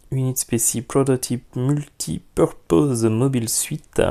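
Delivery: slow, self-mocking French-accented English. Reading the Gundam kit's English name to viewers, in a jokey English accent. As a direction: read the English kit name in a hammed-up English accent. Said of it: "avec mon superbe accent anglais".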